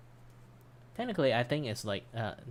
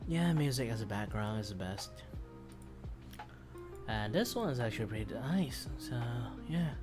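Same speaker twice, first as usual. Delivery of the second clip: slightly slurred speech; words running together, tired; slurring words. Real, not acted. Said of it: "Shit, I'm start slurring my word".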